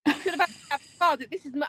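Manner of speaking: deadly serious, lightly put on; retold serious lecture. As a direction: imitate a husband earnestly lecturing the dog. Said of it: "he's, like, proper serious".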